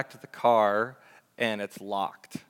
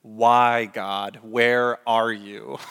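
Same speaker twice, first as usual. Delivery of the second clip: a loud, pleading retold cry at God; 8 dB louder, much slower than usual. Locked out of his car, crying out to God, loud pleading cry. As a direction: cry out to heaven, half-reliving the moment. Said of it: "actually crying out in my neighborhood".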